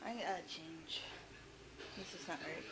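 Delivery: breathless after cleaning; panting between words; out of breath. Real, not acted. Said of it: "I'm out of breath already".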